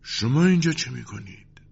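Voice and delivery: high-pitched, shaken question; trembling voice. A narrator's reading. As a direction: ask in trembling disbelief. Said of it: "و با صدای لرزان پرسید". (با صدای لرزان)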